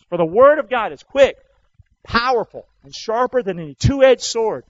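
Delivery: preached scripture recitation. Shown as a demonstration. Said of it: "You ought to memorize this verse".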